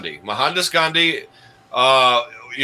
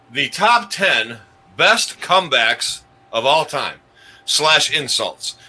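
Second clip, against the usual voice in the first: slow show announcement; slower than usual. Acted.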